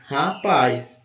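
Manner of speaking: "rapaz" with a long falling PAZ; teacher repeating "rapaz" to show the strong PAZ; stress on last syllable. Shown as a demonstration. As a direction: let PAZ carry "rapaz". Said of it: "É paz".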